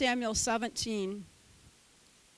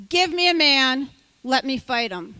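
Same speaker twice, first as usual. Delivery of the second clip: shouting taunt; 7 dB louder than usual. Acted. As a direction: shout the challenge. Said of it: "the Philistine said".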